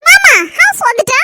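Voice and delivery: high, slow, coy put-on voice; coy young woman asks uncle if they've arrived, cutesy; cutesy girl voice. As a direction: coo it sweetly at her uncle. New girl's put-on voice.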